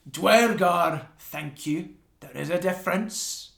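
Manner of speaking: loud, indignant correction; sharp correction. Acted. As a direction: snap back the correction. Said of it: "Frillwood turn and goes".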